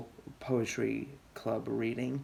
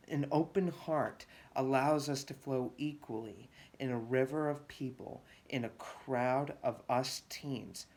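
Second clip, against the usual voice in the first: earnest spoken poem, phrase by phrase; poem recitation; 2 semitones higher, 3 dB quieter than usual. Acted. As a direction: recite your poem to an audience. Reads second poem aloud.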